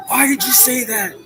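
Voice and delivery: an imagined French commenter whining at the vlogger, pitched high; mock French commenter. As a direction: play the touchy French guy in the comments, high. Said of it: "some French guy in the comment section".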